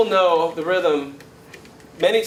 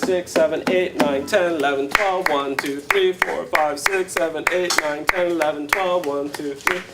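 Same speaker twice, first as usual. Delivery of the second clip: even counting. Shown as a demonstration. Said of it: "I'm just counting to twelve".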